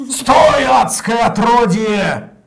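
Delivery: loud, slow robot donation read. Pretend. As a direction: bark it like a robot announcer. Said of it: "голос робота немножко".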